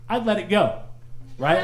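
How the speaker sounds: normal talking voice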